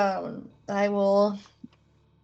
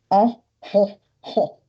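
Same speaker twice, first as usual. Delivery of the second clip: hearty mock "Oh ho ho"; slow hammed-up chuckle; mock laugh; 4 dB louder, slower than usual. Player voicing a jolly character's laugh, slow hammed-up chuckle. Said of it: "How many words is oh ho ho".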